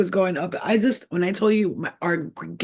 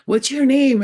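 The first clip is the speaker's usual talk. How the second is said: high, louder mock-tearful question; imitated tearful voice; 7 semitones higher, 5 dB louder than usual. Bawling client asks the psychic, imitated tearful voice. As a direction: mimic someone overcome, voice pitched up. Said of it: "she starts crying. Like, when I say bawling".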